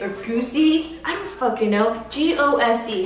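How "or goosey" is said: goosey, two syllables ending in ee; guessed pronunciation. Shown as a demonstration. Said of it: "How do you pronounce that?".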